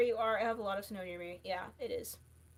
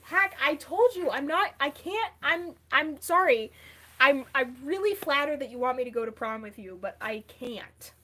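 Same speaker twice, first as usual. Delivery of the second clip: Elmo voice; 6 dB louder than usual. Acted. Elmo turning down a prom invite.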